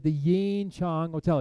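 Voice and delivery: slow, stretched-out hotel name; slow and emphatic. Retold or imitated. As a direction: draw out "Yin Chang" slowly for a deaf listener. Answering a hard-of-hearing caller.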